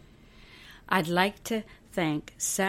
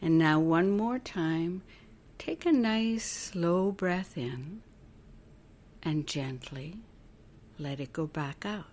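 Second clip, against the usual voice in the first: guided meditation; 5 dB quieter than usual. Acted. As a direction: guide them gently through each breath, letting phrase endings soften. Leads breathing visualization.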